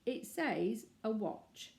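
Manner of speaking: slow and firm, each word set down. Acted. Paddington insisting to the family, very slow and firm. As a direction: state it as settled. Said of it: "he said firmly".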